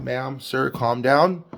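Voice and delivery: lightly voiced calm emergency operator; calm dispatcher. Dispatcher to panicking caller on the line, calm and controlled. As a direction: keep it even and controlled, settling a caller. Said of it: "responding in a very calm manner".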